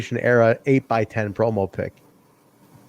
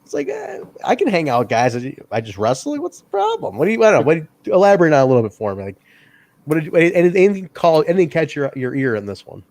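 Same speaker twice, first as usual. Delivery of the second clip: defiant pushback; 4 semitones higher than usual. Retold or imitated. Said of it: "pushes back and says".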